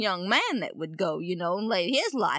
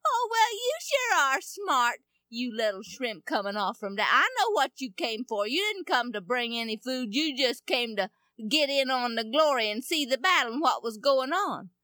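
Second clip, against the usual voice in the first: sneering big brother; 3 semitones higher than usual. Acted.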